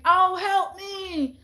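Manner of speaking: high, slow, wailing plea for help; pleading cat voice. Retold or imitated. Imagined cat in heat begging, high slow wail. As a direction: cry out like a suffering cat. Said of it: "I picture them just saying".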